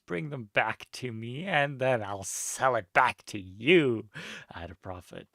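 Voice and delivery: lightly voiced scheming enchantress; a touch of a sly sorceress. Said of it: "what's a good voice for her?".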